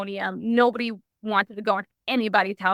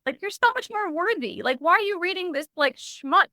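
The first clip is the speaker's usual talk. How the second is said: soft gentle father; 8 semitones higher than usual. Retold or imitated. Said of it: "It was like a soft".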